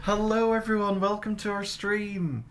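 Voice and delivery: high, bright stream welcome; cheery greeting. Real, not acted. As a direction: greet the chat with a big lift.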